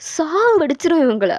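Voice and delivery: mild acted yell, rising in force; exasperated telling-off, moderately loud; scolding yell. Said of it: "ரொம்ப கத்தி விட்டுட்டு".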